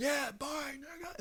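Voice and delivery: "Yeah, bye, nigga" yelled up high; high yelled farewell; loud shout. Retold or imitated. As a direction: shout it so the whole street hears. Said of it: "but then you say it louder".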